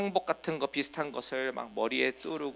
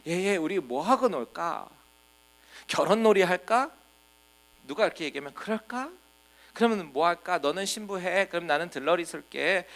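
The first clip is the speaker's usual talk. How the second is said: put-on higher, playful children planning a game; lightly voiced kids; 4 semitones higher than usual. Children in the market plan a wedding game, lightly higher playful voice. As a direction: lightly act children at play. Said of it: "이렇게 노는 겁니다".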